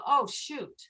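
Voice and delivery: a light, let-down "Oh, shoot"; mock disappointment. Shown as a demonstration. Teacher showing the class a mild letdown, mock disappointed. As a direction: sigh it out like a small mishap. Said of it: "a disappointment".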